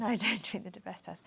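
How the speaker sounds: laughing through the words. Real, not acted. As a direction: chuckle while agreeing. Joking about drinking starch spray.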